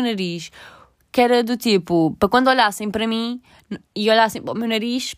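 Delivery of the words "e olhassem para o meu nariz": choking mid-sentence; catching in the throat, choking. Real, not acted. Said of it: "engasguei-me".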